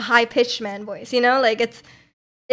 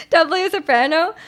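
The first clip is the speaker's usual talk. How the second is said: pitched higher, bright soprano; 5 semitones higher, faster than usual. Shown as a demonstration. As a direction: lift it up like a soprano.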